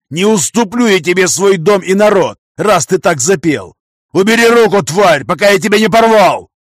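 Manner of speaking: loud, high, shouting in rage; furious outburst. A narrator's reading. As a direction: explode at him with fury. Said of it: "Взорвался я". (яростный крик, срываясь на рёв)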